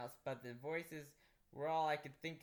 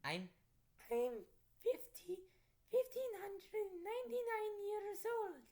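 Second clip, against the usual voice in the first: put-on high, slow Transylvanian-accented vampire girl; slower than usual. Vampire girl calms the narrator in a Transylvanian accent. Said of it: "she said".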